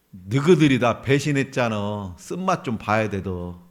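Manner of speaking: playful rebuke; mock scolding. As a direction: grumble a told-you-so. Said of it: "나 같으면 그렇게 얘기했을 텐데".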